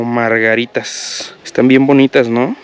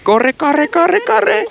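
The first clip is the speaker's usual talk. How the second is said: high urgent calls to hurry; calling out; much slower than usual. Real, not acted. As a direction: call her to run, rising. (gritos de prisa)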